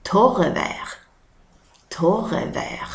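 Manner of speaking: torrevär in Scanian, first falling then rising; Scanian word. Shown as a demonstration. Teacher giving the Scanian word for dry weather. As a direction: say torrevär as a Skåne dialect word. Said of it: "På skånska säger vi".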